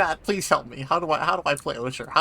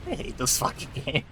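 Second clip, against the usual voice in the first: laughing; 11 semitones higher than usual. Real, not acted. Laughing while losing the fight.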